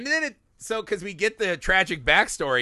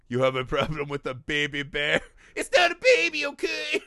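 mock tough guy; 4 semitones lower than usual.

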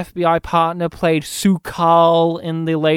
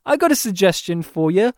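smug Steve Martin; 5 semitones higher than usual. Retold or imitated. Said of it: "Steve Martin's like".

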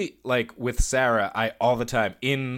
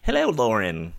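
announcer voice; 5 semitones lower than usual. Acted. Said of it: "where that voice came from".

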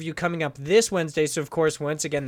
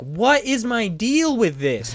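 mock New Jersey accent; 4 semitones higher, slower than usual. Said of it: "a New Jersey accent".

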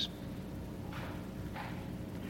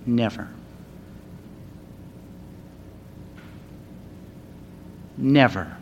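soft building to a shout; 2 semitones higher, 7 dB louder than usual. Retold or imitated. Preacher retelling Churchill to the schoolboys, soft then roaring. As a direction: build from a hush to a full roar. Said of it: "at first softly".

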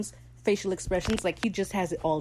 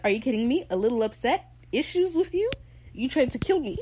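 mock outrage; 6 semitones higher than usual. Acting out Lucius's outraged retort.

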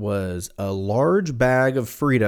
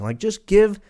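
higher, louder exasperated plea; 10 semitones higher, 4 dB louder than usual. Retold or imitated. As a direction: throw up your hands, just pay already. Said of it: "And I was like".

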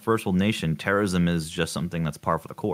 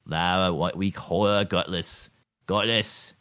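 put-on Boston accent; slower than usual. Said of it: "Say it in a Boston accent".

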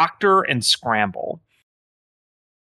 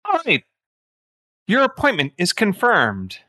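high-pitched, swooping phone-menu AI; exaggerated automated-system lilt; 6 semitones higher than usual. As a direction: confirm it like a chirpy booking bot. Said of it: "very low-level A I that's like".

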